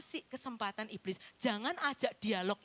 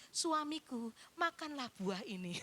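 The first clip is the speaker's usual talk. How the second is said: coy seductive wife. Acted. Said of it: "kayak siluman ular putih".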